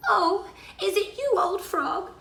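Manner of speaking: high-pitched princess voice. A narrator's reading. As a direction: answer the frog in a high girlish voice. Narrator voices princess answering frog.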